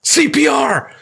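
high shouted frantic alarm; mock battlefield panic. Dad parodying war movies over a popped balloon, mock panic shout. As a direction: yell it like a medic under fire.

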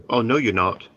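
put-on quoting her in a British accent; mother's British accent. Son quoting his British mother's reply to an apology, British accent. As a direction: slip briefly into a British accent, imitating mum. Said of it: "that was a different accent for a moment there".

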